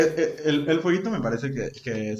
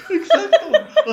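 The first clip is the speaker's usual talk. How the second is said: laughing; 10 dB louder, much slower than usual. Real, not acted. Laughing agreement.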